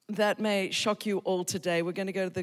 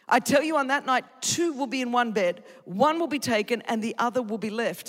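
emphatic, declamatory Bible reading; scripture reading; 3 semitones higher, 4 dB louder than usual. Acted. Preacher reading Jesus' warning, scripture-reading style. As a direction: proclaim each verse to the room.

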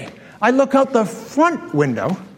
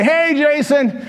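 higher-pitched call to a passerby; cheery hail; 6 semitones higher, slower than usual. Retold or imitated. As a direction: call out brightly, as re-enacted. Hailing the kid passing by.

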